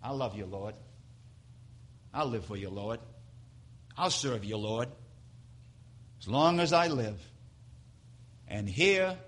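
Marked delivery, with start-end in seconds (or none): 0.0-7.2 hushed, tender pledge to the Lord; soft devoted vow. Retold or imitated. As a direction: murmur it like a quiet prayer. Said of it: "That's what we said to Jesus".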